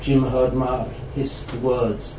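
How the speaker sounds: measured literary reading; story narration. A narrator's reading. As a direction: read the prose out to an audience. Reads a prose story aloud.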